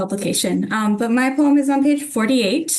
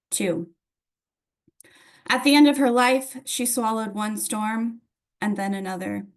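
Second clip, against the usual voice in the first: poem reading. Acted. Reads poem Winter Solstice.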